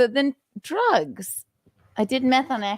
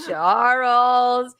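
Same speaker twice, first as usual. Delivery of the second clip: drawn-out name at usual pitch; mock chiding call. Host catches the trickster caller, drawn-out chiding. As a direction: stretch the name out in mock reproach. Repeated drawn-out calling of Charles.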